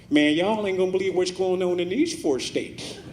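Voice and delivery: high, strange street hustler voice; crackhead voice. Pretend. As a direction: voice a crackhead on FaceTime. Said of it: "That's my crackhead voice".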